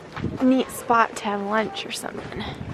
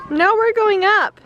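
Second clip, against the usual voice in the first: sharp playground warning; 10 semitones higher, 5 dB louder than usual. Real, not acted. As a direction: call it out firmly up the trail. Calling out to kids.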